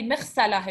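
مغسلة ending on a breathed h; silent ending. Shown as a demonstration. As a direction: say مغسلة without the "tun" ending. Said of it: "if you want to make it silent".

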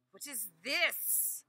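loud, slow put-on voice; puzzled master. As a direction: question it, baffled. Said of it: "said the master".

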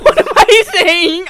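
loud, high, cracking up; laughing. Real, not acted. Player cracking up at their own flirty act, laughing. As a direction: burst out laughing at your own words.

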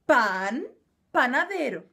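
"pan" and "panadeiro" said the Spanish way; Spanish words said cleanly, one by one. Shown as a demonstration. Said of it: "se pronuncia como pan".

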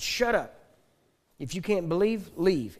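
sudden loud, high shout; sharp shout. Retold or imitated. Father yelling at his panicking family to shut up. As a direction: bark the family into silence.

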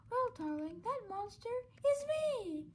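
spring the reveal with glee; villain reveal. Acted.

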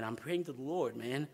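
chuckling through the words; laughing while talking. Retold or imitated. Telling the usher he is praying, laughing. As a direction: laugh at your own stubbornness as you say it.

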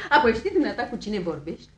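brisk question through laughter; laughing, no longer affronted; amused challenge. Acted. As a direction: ask it while still chuckling, rising at the end. Same challenge, now through laughter.

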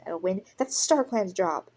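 cross, emphatic put-down; spat retort. Acted. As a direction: spit it out as a rebuke. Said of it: "Speckled Cloud spat".

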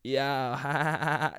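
low put-on voice with a drawn-out chuckle; mock a weird affected voice; lazy, low caricature; a rapper's weird voice. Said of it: "he has a weird voice".

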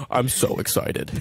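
slow, teasing imitation of excitement; mocking. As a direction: drag it out in mock excitement. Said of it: "Just mocking you".

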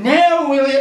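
menacing devil. Acted. Menacing devil grows bigger.

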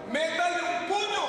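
mock shout. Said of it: "Saben qué le dicen al salvavidas".

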